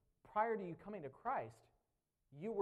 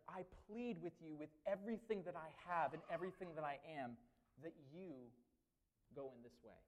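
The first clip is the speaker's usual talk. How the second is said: pleading. Retold or imitated. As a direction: beg them gently with everything you have. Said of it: "that word entreat is like a expression of".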